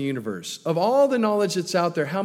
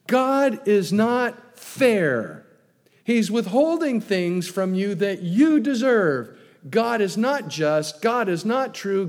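insistent tempter; 4 semitones higher, 3 dB louder than usual. Retold or imitated. Preacher voicing Satan tempting Eve.

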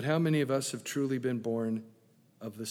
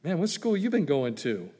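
gentle teasing; 3 semitones higher, 3 dB louder than usual. Acted. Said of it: "Jesus is gently teasing him".

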